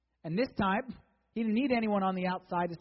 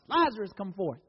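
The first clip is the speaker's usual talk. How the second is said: mildly raised commanding call; loud voice; 2 semitones higher, 6 dB louder than usual. Retold or imitated. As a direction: imitate a loud summons, half strength. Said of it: "loud voice".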